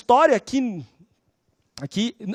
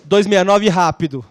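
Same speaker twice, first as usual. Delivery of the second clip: slow, louder, bossy demand; impatient demand; 5 dB louder, slower than usual. Retold or imitated. Intern ordering the judge around, slow loud bossy demand. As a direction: bang the table and demand it.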